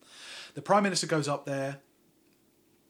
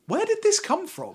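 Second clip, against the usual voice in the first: high-pitched, louder incredulous question; exasperated disbelief; 5 dB louder than usual. Real, not acted. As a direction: jump up high in baffled protest. Exasperated at the show's writing.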